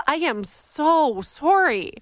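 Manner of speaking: Canadian SORRY with a rounded SOR-ee, slow and drawn out. Real, not acted. Host apologizing to a caller for mocking Nova Scotians, Canadian accent slipping out. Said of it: "replay the way I said sorry".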